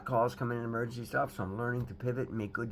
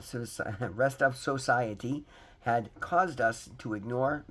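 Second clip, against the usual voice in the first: reading aloud; 3 dB louder than usual. Acted. Reads daily recovery meditation.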